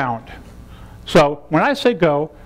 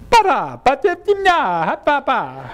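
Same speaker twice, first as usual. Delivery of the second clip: higher, slow sing-song ba-da babble; playful babble; 6 semitones higher, slower than usual. Shown as a demonstration. Teacher demonstrating babble to students, playful and higher. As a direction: bounce through the nonsense syllables. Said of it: "Or it could be".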